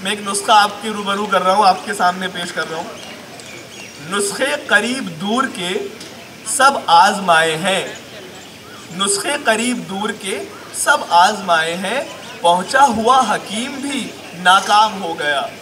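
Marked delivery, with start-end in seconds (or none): 4.1-15.5 comic Urdu poetry delivery; mushaira recitation. Acted. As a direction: recite slowly, then land the punchline firmly. Recites comic remedy verse.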